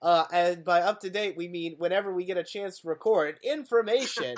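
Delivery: polished news anchor read; newscaster voice. Acted. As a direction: announce it like a TV anchor. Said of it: "that's a nice newscaster voice".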